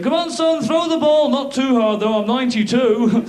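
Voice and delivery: high, a touch frail; old father. Retold or imitated. Ninety-two-year-old father to son, high frail voice. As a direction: play a very old dad. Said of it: "with their kid going".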